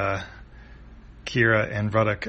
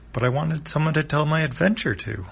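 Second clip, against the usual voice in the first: higher, slightly whiny letdown; a touch of childlike disappointment; lightly acted lament; mildly plaintive; 5 semitones higher than usual. Chippu left alone, disappointed.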